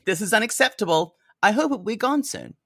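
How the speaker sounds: a touch of a stern mother, brisk; mother's stern line. Retold or imitated. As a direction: snap it out like a disapproving mom. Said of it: "quote from the mom".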